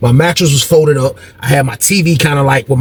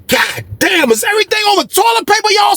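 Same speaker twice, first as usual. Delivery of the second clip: exasperated outburst. Retold or imitated.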